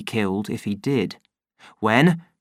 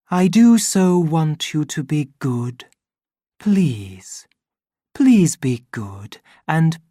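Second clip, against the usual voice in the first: trembling plea; 3 semitones higher, slower than usual. Acted. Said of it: "It trembled".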